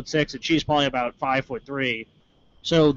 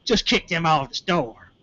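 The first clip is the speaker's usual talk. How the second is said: lightly put-on smug voice; 3 semitones higher than usual. Store woman dismissing them to the cop, mock smug. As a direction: imitate a self-satisfied complainer. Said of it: "like, all smug".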